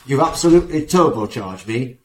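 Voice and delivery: playful Yorkshire client voice; Yorkshire accent. Retold or imitated. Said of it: "Like my Yorkshire accent there".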